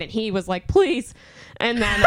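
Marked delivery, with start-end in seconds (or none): 0.7-1.1 high-pitched imitated plea; mock pleading. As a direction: mimic a scared man begging. Imitates threatened man begging her.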